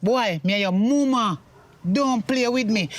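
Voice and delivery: scolding mother. Acted. Mother scolding her son.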